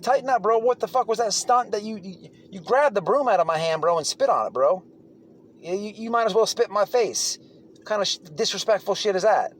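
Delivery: retelling an angry callout of the inmate; retold confrontation. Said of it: "I said".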